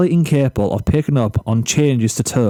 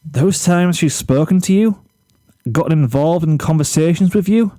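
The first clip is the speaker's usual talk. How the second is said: firmer Flash; 5 semitones higher than usual. Acted. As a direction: push harder, losing patience.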